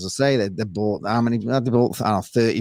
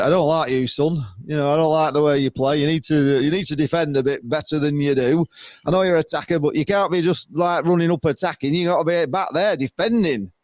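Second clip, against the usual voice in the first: put-on Yorkshire accent; lightly voiced Yorkshire football manager telling a player off; Mick McCarthy. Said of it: "That was my best Yorkshire accent".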